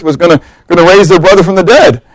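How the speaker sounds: ordinary talk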